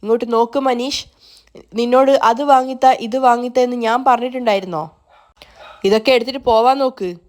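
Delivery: mild anger. Acted. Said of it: "ദേഷ്യത്തോടെ അവനോട് പറയുന്നുണ്ട്".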